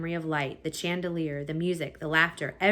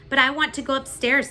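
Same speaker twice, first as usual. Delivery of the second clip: put-on whiny girl; 8 semitones higher, 7 dB louder than usual. A narrator's reading. Midge whining.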